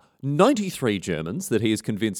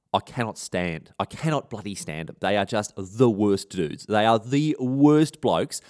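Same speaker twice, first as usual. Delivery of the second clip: slow, weighty emphasis on each word; deliberate, drawn-out mock-serious rant; emphatic loathing; slower than usual. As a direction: vent your disgust slowly, word by word. Acted Willy venting hatred of Nazis.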